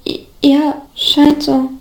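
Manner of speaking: hesitant, brittle stammer; cracked, unsure reply; brittle, faltering voice. A narrator's reading. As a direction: falter into an uncertain yes. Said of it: "mit einem brüchigen".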